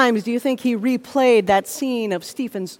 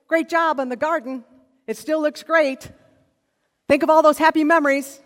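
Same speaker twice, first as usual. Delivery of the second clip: higher, lightly voiced cheerleader; a touch of upbeat, encouraging praise; mock encouragement; 4 semitones higher than usual. Imagined kind voice praising a gardener, mild encouragement.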